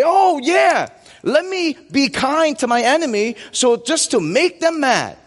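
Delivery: high, sarcastic mock-sweet voice; mocking smugness. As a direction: sneer it like a fake-nice Christian. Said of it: "A lot of us would read this and say".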